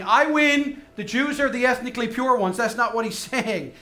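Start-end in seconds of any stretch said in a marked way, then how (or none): 0.0-2.6 mock boast. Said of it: "He's not basically saying".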